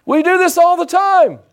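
breezy high voice playing Jesus; casual Jesus. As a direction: toss it off like a buddy waving.

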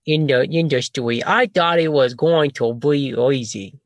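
put-on slow, babyish talk to Billy. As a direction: talk down like to a toddler. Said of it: "Well, I could baby, hold on".

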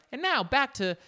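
a hint of a TV presenter; imitating news anchor. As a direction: drag out the handoff like a bored anchor. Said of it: "the journalist before, she's just kinda".

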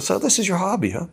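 lightly voiced German filmmaker, high and dry; a hint of a deadpan German critic; Herzog voice. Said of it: "and Werner said".

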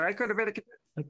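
a light first try at Marlon Brando, cut off; Brando impression. Host trying his Brando impression for the co-hosts, lightly voiced. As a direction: start the contender line as Brando, then abandon it. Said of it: "I could do my Brando impersonation".

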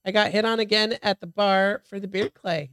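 stuffy blocked nose; talking with a blocked nose. Real, not acted. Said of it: "I can't breathe through my nose right now".

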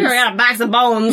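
laughing through the quote. Retold or imitated. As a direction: repeat it while cracking up. Friend repeats quote, laughing.

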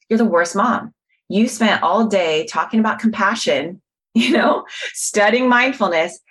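a mild mock scolding of yourself; harsh inner critic. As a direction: berate yourself like a harsh judge. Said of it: "So here I am judging myself".

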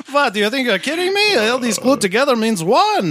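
put-on hammy old Jewish man; Jewish accent. Mock Jewish accent bit.

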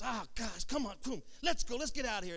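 mildly exasperated imitation of a dad; acted parental exasperation; frustrated dad. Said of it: "You get all frustrated".

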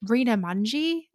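put-on halting go at a British accent; unconvincing British accent; attempted British accent. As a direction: try a British accent, slowly and not very well. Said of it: "He's a British accent".

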